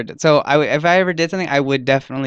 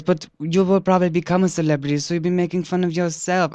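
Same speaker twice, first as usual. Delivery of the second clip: quoting interviewer; 6 semitones higher than usual. Retold or imitated. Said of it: "And he goes".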